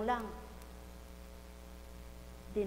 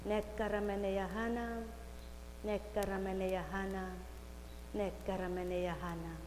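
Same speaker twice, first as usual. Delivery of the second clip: speaking in tongues; 3 semitones lower, 5 dB quieter than usual. Acted.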